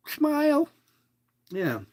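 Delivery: tiny high-pitched "smile?"; playful coaxing. Real, not acted. Host asking listeners to make their heart smile, playful high coaxing. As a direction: lift it way up into a little squeak.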